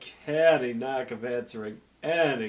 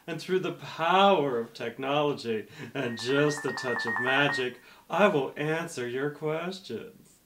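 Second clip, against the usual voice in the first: hard sell ad. Acted. Infomercial pitch throughout.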